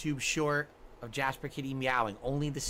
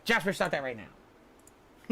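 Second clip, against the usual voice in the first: slow stern scolding; much slower than usual. Real, not acted. Scolding the cat.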